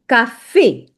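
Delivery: café as slow, separate "ka-fay"; model pronunciation. Shown as a demonstration. Teacher giving learners an example, café slowly as "ka-fay". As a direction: say café in two clear syllables, ending "ay". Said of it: "you read it like café".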